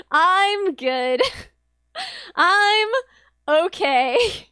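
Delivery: polite no broken by laughter; laughing refusal. Retold or imitated. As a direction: turn her down while giggling. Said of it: "And I was like".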